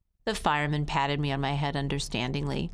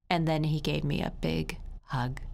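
ordinary delivery, nothing marked

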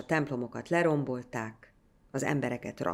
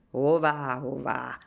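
indignant; 4 dB louder, slower than usual. A narrator's reading. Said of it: "méltatlankodtak az öregek".

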